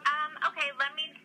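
a clerk thrown by an odd request; flustered. Real, not acted. Clerk surprised by sponsor request.

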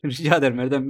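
flat robotic monotone. Real, not acted. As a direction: deliver it like a robot. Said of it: "Ben niye öyle robot gibi konuşuyorum".

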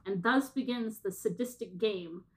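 measured read-aloud narration; synopsis reading. Acted. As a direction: read the plot blurb out with light drama. Reads out a synopsis.

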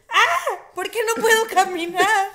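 hammed-up confused waking; mock groggy patient. Woman imitating herself waking from surgery, laughing.

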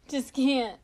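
high laughing squeal. Real, not acted. Laughing at the memory with viewers. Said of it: "laughing at herself".

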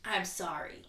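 mock half-hearted sorry; a dutiful apology to a friend, deliberately half-hearted; bad apology. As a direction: toss off a grudging sorry. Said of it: "really bad apology".

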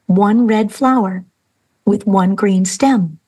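slow, deliberate teacher's step-by-step; teacher's slow demonstration. Retold or imitated. Teacher showing the class one flower, slow and deliberate. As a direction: spell it out slowly like showing a class. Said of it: "she shows them how to draw".

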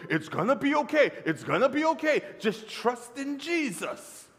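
high, singsong comforting; mock reassurance. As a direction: parrot everybody's easy comfort. Mimics people's easy reassurance.

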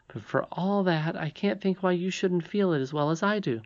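high princess voice, explaining eagerly; insistent young princess. Acted. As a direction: explain it earnestly as the little princess. Irene puzzles aloud.

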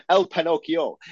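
mock Spanish accent, lightly put on; a touch of put-on Spanish. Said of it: "I don't know why I did the accent".

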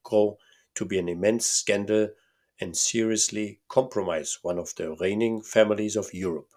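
a lightly voiced Bohemian count, pompous; German-accented count. Count's voice in read story.

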